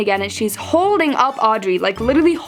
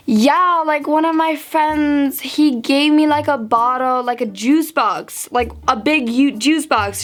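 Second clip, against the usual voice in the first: put-on drunk friend; 3 semitones higher, slower than usual. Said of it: "She's drunk".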